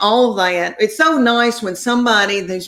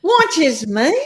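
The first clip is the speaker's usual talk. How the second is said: high, drawn-out gasp of disbelief; stunned disbelief; 5 semitones higher than usual. Retold or imitated. Told Doctor Phil watches her, high stretched-out disbelief. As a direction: stretch it out, too amazed to believe it. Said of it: "And I was like".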